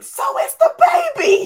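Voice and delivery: full-throated, shrill, very high, very loud shriek. Retelling a passenger's reply to being told he was yelling: imitating a man yelling. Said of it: "Sir, you are yelling".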